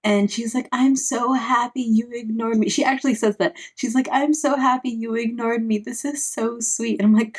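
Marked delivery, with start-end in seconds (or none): 0.7-2.7 lightly put-on higher girl voice; mock-gush like a touched girlfriend, pitched up; mildly hammed-up lovestruck delight; imitating gushing girl. Imitating manga girl's gushing reply. 4.1-7.0 lightly put-on higher girl voice; mock-gush like a touched girlfriend, pitched up; mildly hammed-up lovestruck delight; imitating gushing girl. Repeats manga girl's gushing reply.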